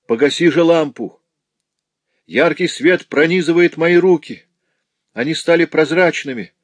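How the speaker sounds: high, loud shriek of torment; piercing cry. A narrator's reading. Notary calling his companion executioner, piercing cry. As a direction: cry out in agony at your tormentor. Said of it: "раздался пронзительный крик".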